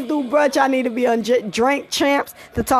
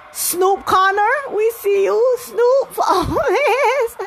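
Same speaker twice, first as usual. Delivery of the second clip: high, loud excited yelling; hyped shouting; 13 semitones higher, 4 dB louder than usual. Real, not acted. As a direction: shout it out, thrilled. Game-winning touchdown hype.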